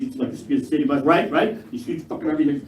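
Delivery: ordinary talk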